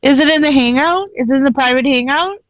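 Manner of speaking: mocking imitation. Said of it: "I was picking on somebody 'cause they used to say that".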